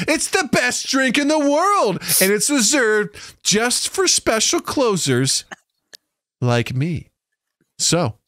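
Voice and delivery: patient build-up for a little one; baby talk. Shown as a demonstration. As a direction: talk down to a small child, with pauses. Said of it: "pretending that you're talking to children".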